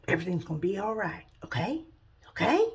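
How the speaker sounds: reassuring. Acted. Jesus reassures scared disciples.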